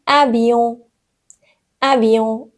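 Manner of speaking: اویون ending on a nasal vowel. Shown as a demonstration. Teacher showing French alphabet examples, اویون with nasal ending. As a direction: say اویون with the final N sounded through the nose.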